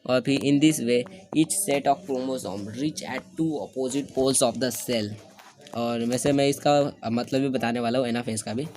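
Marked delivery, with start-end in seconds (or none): 0.4-5.1 reading the textbook line out word by word, very slowly; slow dictation. Shown as a demonstration. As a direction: dictate it slowly so students can write. (धीमे-धीमे notes लिखवाते हुए)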